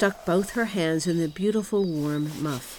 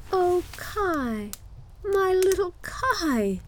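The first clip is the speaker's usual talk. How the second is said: put-on high, drawn-out girlish lament; acted sobbing; 12 semitones higher, much slower than usual. A narrator's reading. Gerda longs for lost Kai, mock sobbing. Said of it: "sobbed Gerda".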